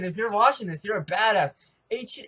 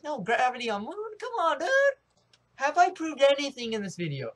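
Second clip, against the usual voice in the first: exasperated; 8 semitones higher, 4 dB louder than usual. Real, not acted.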